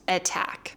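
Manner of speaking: "attack" with both A's stressed and true T; regular T. Shown as a demonstration. Teacher repeating the exception, "attack" with regular T. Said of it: "both A's are stressed".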